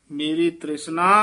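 ਤ੍ਰਿਸ਼ਨਾ rising into a brief halt; slight halt after ਤ੍ਰਿਸ਼ਨਾ. Shown as a demonstration. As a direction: lift ਤ੍ਰਿਸ਼ਨਾ, then hesitate. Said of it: "ਇੱਥੇ ਠਮਕ".

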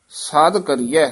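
ਸਦ pronounced lightly before ਕਰੀਐ; soft ਸਦ. Shown as a demonstration. Teacher corrects the student, ਸਦ said softly. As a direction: keep ਸਦ soft, unpressed. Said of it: "ਸਦ ਪੋਲਾ ਪੋਲਾ".

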